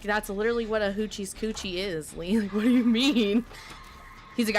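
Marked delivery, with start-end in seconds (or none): 0.0-3.4 retold laughing disbelief. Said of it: "And I was like".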